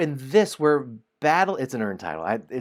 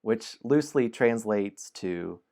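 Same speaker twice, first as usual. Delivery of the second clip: slow, dramatic storybook reading; story narration; 2 semitones higher than usual. A narrator's reading. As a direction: draw the listener into the dungeon. Narrator aside.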